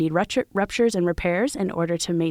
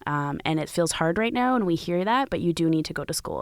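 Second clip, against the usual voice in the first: calm and confident. Retold or imitated. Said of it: "very calmly and confidently said".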